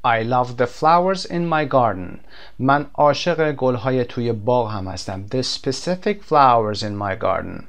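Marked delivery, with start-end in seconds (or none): 0.0-2.2 slow teaching read. Shown as a demonstration. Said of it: "وقتی که حرف تعریف the رو میاریم". 5.3-7.6 slow teaching read. Shown as a demonstration. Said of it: "یعنی گلهایی که مشخصه".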